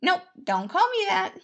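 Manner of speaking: high, loud playful brush-off; cheeky prince waving off a title; Remus, brash prince. Acted. Prince refusing to be called Your Grace, high and loud.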